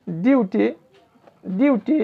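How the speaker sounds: ডিউটি with a clear yu glide; yu sound. Shown as a demonstration. Teacher showing u said as yu, clear glide in ডিউটি. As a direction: model ডিউটি alone, as di-yu-ti. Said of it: "ইউটা ইউ এর মতো উচ্চারিত হচ্ছে".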